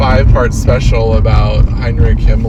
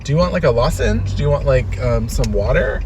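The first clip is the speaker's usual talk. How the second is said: tender, caring; 2 semitones higher, 6 dB quieter than usual. Retold or imitated. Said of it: "I might just be like".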